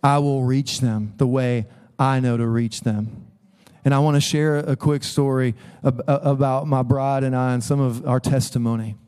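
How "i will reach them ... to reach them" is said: low, measured fatherly voice; gently but firmly correct a son; lightly voiced God, pitched lower; the Lord reminding. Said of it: "feel the Lord reminding me".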